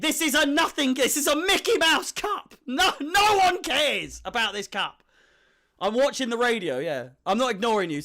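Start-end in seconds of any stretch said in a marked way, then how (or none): 0.0-5.0 imitating his father. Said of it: "my father ... drilled it into my head".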